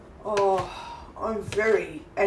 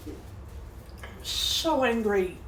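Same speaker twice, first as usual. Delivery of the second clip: slow seething mutter; 6 semitones higher, 4 dB quieter, much slower than usual. Real, not acted. Muttering about the scheme.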